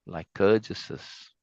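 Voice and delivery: Lycurguses said slowly and softly, syllable by syllable; sounding out a word. Shown as a demonstration. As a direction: spell out Lycurguses slowly as if testing it.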